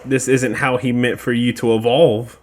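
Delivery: ordinary talk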